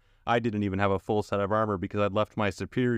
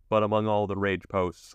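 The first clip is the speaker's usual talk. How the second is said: ordinary delivery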